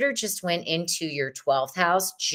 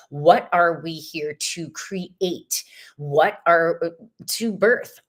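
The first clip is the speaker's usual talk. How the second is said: whisper; 2 semitones lower than usual. Real, not acted. Tarot reader dropping to hushed question.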